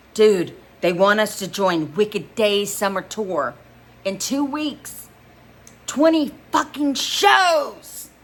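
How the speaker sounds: rising to a high, slow shout; yelling. A narrator's reading. Bandmate yells news of the tour to the band, excited. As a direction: yell it out, fists in the air. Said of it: "Max yells".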